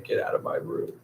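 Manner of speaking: whispered voice of a sleepy Al; lightly voiced grumpy Al; groggy brush-off. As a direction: hiss it from under the blankets. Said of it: "Al will be like".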